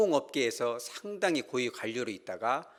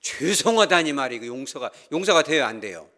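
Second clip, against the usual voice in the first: indignant boss; 7 dB louder than usual. Retold or imitated. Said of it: "사장님이 뭐라고 하냐면".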